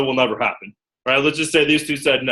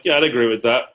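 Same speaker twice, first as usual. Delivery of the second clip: unimpressed. Shown as a demonstration. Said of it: "You see the nonverbals?".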